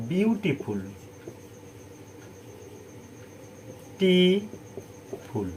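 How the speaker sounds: each syllable apart with long pauses. Shown as a demonstration. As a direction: break the word into separate syllables. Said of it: "তিনটে syllable থাকে". (সিলেবল ভেঙে ভেঙে, থেমে থেমে)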